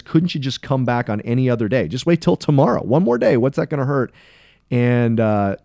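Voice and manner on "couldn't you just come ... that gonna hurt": imitating a put-out objector, pitch climbing to a plea; indignant. Synagogue leader objecting to Sabbath healing, mock-indignant. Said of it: "he is indignant and he says".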